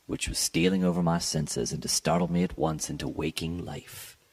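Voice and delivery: measured, lightly dramatic reading of a gothic tale; story narration. A narrator's reading. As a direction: read it like a classic gothic story, unhurried. Reads Poe story aloud.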